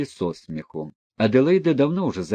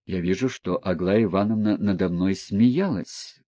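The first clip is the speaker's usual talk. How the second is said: sad reply; 2 semitones lower than usual. Acted. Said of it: "грустно ответил князь".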